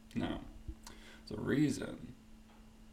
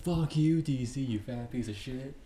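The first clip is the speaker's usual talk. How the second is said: mock crowd yelling; 3 dB louder than usual. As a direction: heckle him like an angry crowd. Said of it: "And everyone's like".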